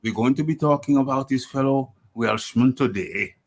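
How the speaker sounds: amateur Welsh impersonation; Welsh accent. Shown as a demonstration. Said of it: "Let me try and do the accent".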